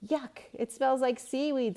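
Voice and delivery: high, loud yuck of disgust; disgusted girl. A narrator's reading. Girl holding her nose at seaweed, high disgusted yuck. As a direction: wrinkle your nose at the smell. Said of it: "said Stephanie".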